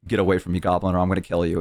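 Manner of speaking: lightly voiced angry orc. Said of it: "And they'd be like".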